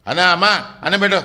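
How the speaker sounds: mild mock yell for food; demanding yell. Preacher acts a child yelling at mother for food, demanding call. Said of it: "అమ్మ, అన్నం పెట్టని అరుస్తే".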